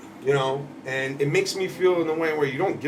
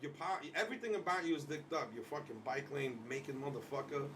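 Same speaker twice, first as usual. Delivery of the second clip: muttered insults; 18 dB quieter than usual. Real, not acted. Ranting at photo.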